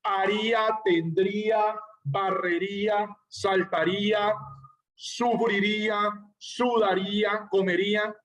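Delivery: drawn-out verbs with force on the í of "haría", "tendría"; stress on the final -ía. Shown as a demonstration. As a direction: lean on the í in each verb ending, like "barrería". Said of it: "sienten esa fuerza en la I".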